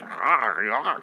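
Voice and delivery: a light zombie groan; imitated zombie groan. Fan voicing the zombie being yelled at, mock groan. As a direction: groan back like a mindless zombie. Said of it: "the zombie's just like".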